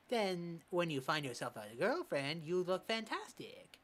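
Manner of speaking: put-on a lightly done East Asian accent for the old coach. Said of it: "don't cancel me for this accent".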